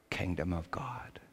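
sudden hushed whisper at the phrase end. Real, not acted. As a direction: drop to a breathy whisper for reverence. Sermon climax dropped to whisper.

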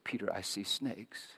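quiet, hushed retelling of her whisper; mock hushed confidence; retold whisper. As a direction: drop the voice as if whispering in an ear. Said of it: "she whispered in my ear".

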